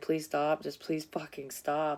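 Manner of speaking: put-on desperate pleading voice, crying. Recounting severe pain before going to the hospital, the speaker acts out a crying plea. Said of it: "I'm like".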